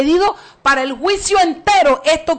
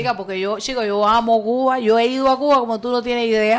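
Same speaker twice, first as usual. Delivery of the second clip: put-on Cuban accent. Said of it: "tiene más acento que yo".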